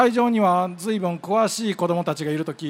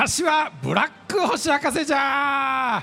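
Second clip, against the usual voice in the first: put-on old professor proudly announcing himself; creaky wise old man; 5 semitones higher than usual. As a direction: croak out his name like a mad scientist.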